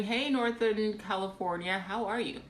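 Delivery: a light, bad British accent on the greeting; hammed-up British accent, barely put on; terrible British accent. Greeting the Northern California viewers in a bad British accent. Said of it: "with a terrible British accent".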